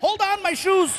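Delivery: high, chiming announcement; mock casino sound voice. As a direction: sing it like a slot machine. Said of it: "It was like".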